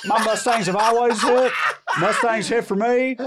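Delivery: high, fast hammed-up yokel bragging; mock redneck fan. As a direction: lampoon the proud Mustang owner, high and fast. Mocking the Mustang fan.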